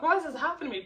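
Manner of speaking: a touch of acted hysteria; retold panic. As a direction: reenact a panicked lament. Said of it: "Panic, like, really acting crazy".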